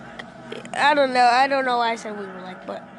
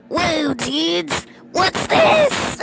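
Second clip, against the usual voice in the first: excited shout; 4 semitones higher, much slower than usual. Retold or imitated. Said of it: "and he's like".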